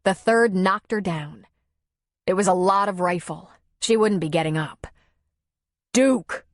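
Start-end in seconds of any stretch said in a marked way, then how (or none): 5.9-6.5 higher-pitched call to a dog; firm command. A narrator's reading. Tom calls his dog off the bear, firm command. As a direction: call the dog's name as an order. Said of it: "he commanded".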